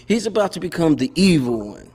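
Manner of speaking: said through a laugh. Real, not acted. Laughing as he repeats the stepfather joke.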